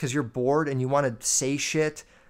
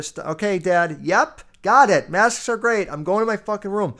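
louder and higher, building to an impatient shout; exasperated cutoff; 5 semitones higher, 6 dB louder than usual. Retold or imitated. Son cutting off his rambling dad, exasperated and loud. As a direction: cut him off, fed up and loud.

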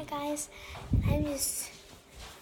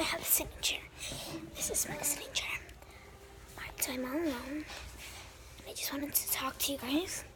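soft voiceless whispering; 6 dB quieter than usual. Real, not acted. Kid whispering to her viewers alone. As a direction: confide it in a whisper.

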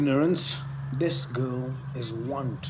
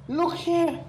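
urgent call. Acted. Spirit urges him to look.

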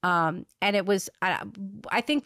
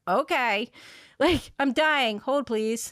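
high, laughing mock disbelief; 3 semitones higher, slower than usual. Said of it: "It's like".

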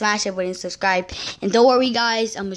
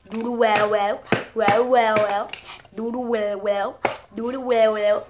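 put-on baby talk. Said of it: "baby talk".

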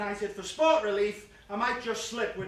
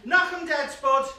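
mock high voice; 5 semitones higher, 7 dB louder than usual. Reading a text in a mock voice.

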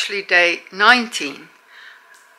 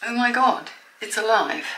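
soft, higher-pitched real astonishment; quietly amazed, in awed disbelief; hushed amazement; 4 semitones higher, 7 dB quieter than usual. Real, not acted. Sees presumed-dead chick moving in egg.

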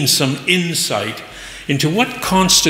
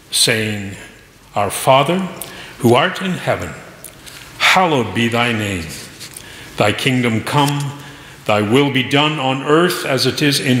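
solemn, measured prayer voice with long pauses; 2 semitones lower than usual. Acted. Pastor leading the congregation in prayer, solemn and unhurried.

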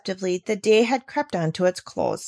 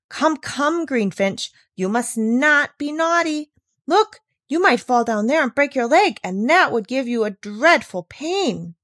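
higher, gentle coaxing of a goat; 5 semitones higher than usual. Acted. Girl coaxing her goat, gently pleading. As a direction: coax the runaway goat kindly. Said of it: "and said coaxingly".

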